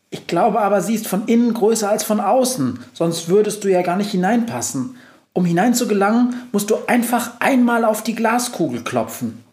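high proud mouse voice. Acted. Mouse boasting to the witch, high and proud. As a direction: boast like a tiny reporter.

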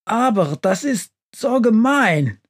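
high-pitched, indignant stove voice; furious. A narrator's reading. Stove Hubi accusing the witch, furious. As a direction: protest angrily in a high voice. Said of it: "sagt Hubi wütend".

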